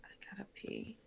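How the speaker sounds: hushed whisper aside. Real, not acted. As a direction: whisper it quietly. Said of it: "whispered aside".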